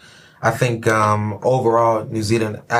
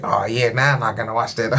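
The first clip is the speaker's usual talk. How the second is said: bad Kiwi accent. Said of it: "my bad Kiwi accent".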